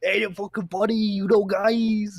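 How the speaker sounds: mock coked-up Boston accent; hammed-up Boston accent voice. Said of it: "I'm doing the Boston accent".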